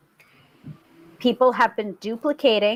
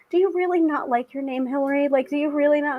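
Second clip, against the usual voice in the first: lightly voiced mom; 4 semitones higher, faster than usual. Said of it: "my mom has just been like".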